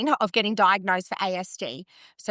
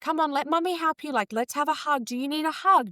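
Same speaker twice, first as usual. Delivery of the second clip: lightly voiced gentle mother comforting her son; calm soothing mum; 6 semitones higher than usual. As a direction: gently coax the toddler into a hug. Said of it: "I can be so calm and I'm just like".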